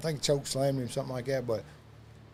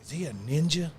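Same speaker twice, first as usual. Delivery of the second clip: imitating AJ; 9 dB quieter than usual. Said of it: "A J just goes".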